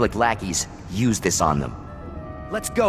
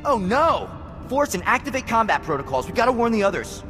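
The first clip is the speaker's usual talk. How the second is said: higher-pitched, urgent alarm; 5 semitones higher than usual. Acted. Comrade hearing the base is invaded, alarmed.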